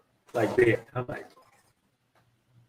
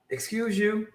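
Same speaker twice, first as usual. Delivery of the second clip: mock offended woman, pitched much higher; indignant woman; 10 semitones higher than usual. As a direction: play the affronted lady on the train. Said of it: "she's like".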